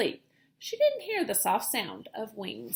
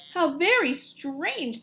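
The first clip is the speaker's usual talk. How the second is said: murmuring; 4 semitones higher, 3 dB louder, slower than usual. Acted. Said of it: "they all murmured".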